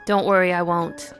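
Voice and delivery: ordinary delivery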